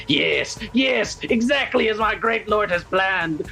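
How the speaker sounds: gleeful cackling zealot, drawn out; hammed-up villain rejoicing; Vomitoria. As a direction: stretch it out in wicked, rising triumph. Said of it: "cackling to herself".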